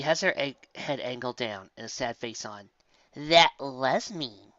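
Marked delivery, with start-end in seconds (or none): 3.2-4.5 slow agreement. Acted. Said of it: "I agreed".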